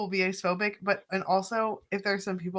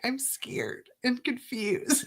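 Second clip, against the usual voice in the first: laughing mock confusion; 5 semitones higher, 4 dB quieter, much slower than usual. Retelling own confusion, laughing.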